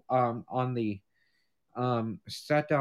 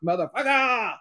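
ranting to dad; 5 semitones higher, 3 dB louder than usual. Retold or imitated. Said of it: "I said".

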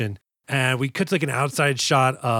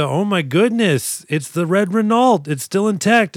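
higher, stretched-out gasp of discovery in words; mock amazement; 5 semitones higher than usual. Recapping the car's discovery, hammed-up amazement. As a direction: play up the big reveal.

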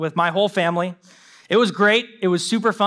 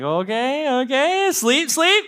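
rising ever higher into a pleading squeak; 5 semitones higher, slower than usual. Retold or imitated. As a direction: beg the baby to sleep, climbing up. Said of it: "I'm like".

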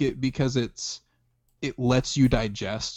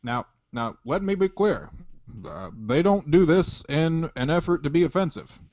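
Obama impression. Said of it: "white Barack".

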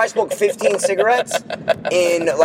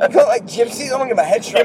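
light impression of a nervous Charlie; half-laughing mock Charlie, fretting; a hint of a worried Charlie; imitating Charlie; 5 semitones higher, faster than usual. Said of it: "The way Charlie said that".

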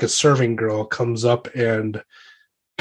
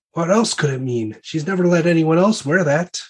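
lightly voiced whispering court lady; half-voiced gossip among ladies; 6 semitones higher than usual. Lady answering gossip about the locket, lightly acted stage whisper. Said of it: "a bunch of ladies, like, uh, whispering".

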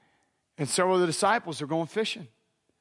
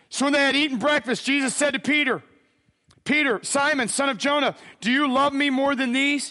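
raised, ringing Bible reading; proclaimed scripture reading; 7 semitones higher, 3 dB louder than usual. Real, not acted. Preacher reads Jesus questioning Peter, high and declamatory. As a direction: proclaim the passage, pitched up.

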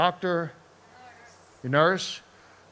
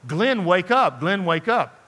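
raised voice, imitating someone rousing a sleeper; retold urgent calling; 4 semitones higher, 5 dB louder, slower than usual. Wife trying to rouse her unresponsive husband, imitated calling out. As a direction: call it out twice, a little higher and louder.

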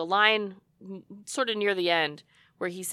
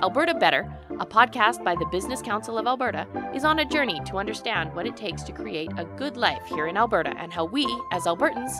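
ad read. Acted. Reads sponsor ad.

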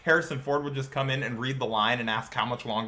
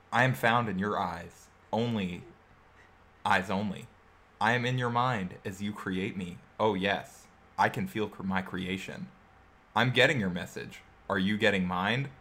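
sultry voice; 6 semitones lower, 4 dB quieter than usual. Pretend. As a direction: breathe it out like a late-night VR hostess. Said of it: "you have a sultry voice".

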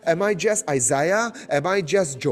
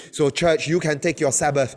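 fervent preaching; 3 semitones lower than usual. Acted. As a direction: preach it with building fire. Preaching at full force.

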